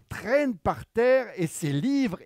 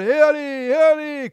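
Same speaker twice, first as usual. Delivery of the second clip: urgent hurrying; 9 semitones higher, 9 dB louder than usual. Acted. Rushing around like a whirlwind.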